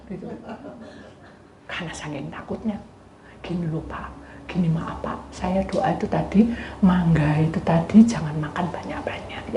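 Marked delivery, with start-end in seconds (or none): 3.4-9.6 trembling whispered explanation; scared whisper. Retold or imitated. Youth timidly explaining to the man, whispered. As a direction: whisper it out of fear.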